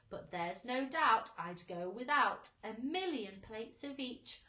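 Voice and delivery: centipede's food song, read with bounce; recited rhyming song. A narrator's reading. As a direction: read it like a jolly nonsense poem.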